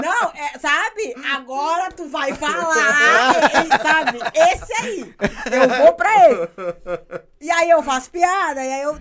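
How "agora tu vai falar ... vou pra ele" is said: mocking tone. Shown as a demonstration. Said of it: "o deboche é aquele".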